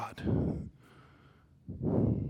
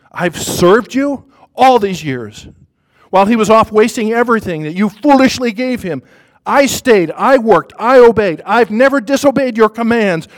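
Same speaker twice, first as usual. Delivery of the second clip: rising, louder with each clause, bitter; resentful outburst; 4 semitones higher, 5 dB louder than usual. Acted. Older son protesting to his father, building angry outburst. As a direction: pile up the grievances until they burst.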